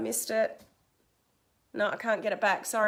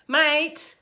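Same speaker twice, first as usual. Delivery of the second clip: higher, firm Australian MATE; 4 semitones higher, 4 dB louder than usual. Retold or imitated. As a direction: say MATE as an emphatic Australian address. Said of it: "that's very Australian of me".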